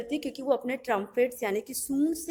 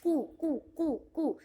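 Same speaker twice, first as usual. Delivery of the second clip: soft pigeon coo; 3 semitones higher, 4 dB quieter, slower than usual. Shown as a demonstration. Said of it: "क्या वो cry उसको बोलते हैं?".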